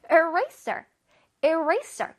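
"Eraser" with a lift on RA; bouncy stress on RA. Shown as a demonstration. Teacher drilling pupils, RA bounced. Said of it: "어깨를 살짝 들썩해줘야 돼".

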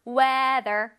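"Weather" slow, tongue out for the th. Shown as a demonstration. Teacher showing children the TH in Weather, careful pronunciation. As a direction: let the tongue slide back on the th of "Weather". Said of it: "혓바닥이 앞으로 나왔다가 뒤로 슝 들어가죠".

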